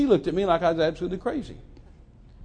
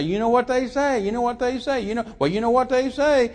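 higher-pitched, repetitive busybody chatter; imitating gossips; 7 semitones higher than usual. People coming to you with what they say, mock gossipy. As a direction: mimic people pushing hearsay on you. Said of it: "people come to you and say".

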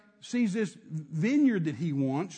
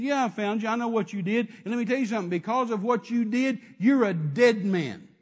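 prophet's denunciation; 2 semitones higher, 4 dB louder than usual. Acted. Prophet Elijah answering King Ahab with his doom, forceful denunciation. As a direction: hammer out the death sentence.

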